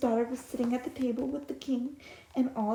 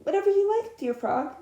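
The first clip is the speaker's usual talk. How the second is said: eager princess; 8 semitones higher, 5 dB louder than usual. Acted.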